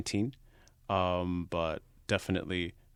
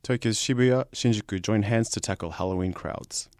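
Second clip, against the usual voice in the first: news headline read, starting raised and firm; 2 semitones higher, 5 dB louder than usual. Acted. Reads the headline aloud.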